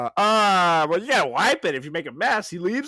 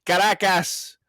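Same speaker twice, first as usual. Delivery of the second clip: put-on high-pitched accented announcement. Host telling listeners where he is from, high-pitched and showy. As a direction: place names in a lightly put-on Spanish accent. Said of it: "you sounded so high-pitched or nasal".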